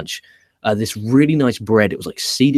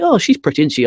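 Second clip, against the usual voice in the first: much higher-pitched mock girlfriend voice; imitated girlfriend; 6 semitones higher, 3 dB louder than usual. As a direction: put on your girlfriend's high questioning voice. Voices girlfriend's remark about the wrestler.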